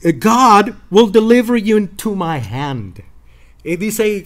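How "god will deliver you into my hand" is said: David's challenge. Retold or imitated. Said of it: "he says".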